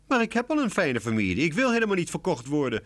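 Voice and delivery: high, sad sighing kitten voice; sad little cat. A narrator's reading. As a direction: sigh it out, sad and pleading. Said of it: "verzucht Lucy bedroefd". (bedroefd zuchtend katje, hoog)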